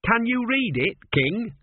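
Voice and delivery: high, keen apprentice voice; enthusiastic. A narrator's reading. Apprentice asks the king about inscriptions, high and enthusiastic. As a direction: ask with eager, high-pitched enthusiasm. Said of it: "unnecessary enthusiasm".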